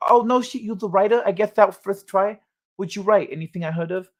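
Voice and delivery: lightly lisped boxer impression, a little excited; Mike Tyson. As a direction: play an interested champ with a slight lisp. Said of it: "Mike Tyson impression".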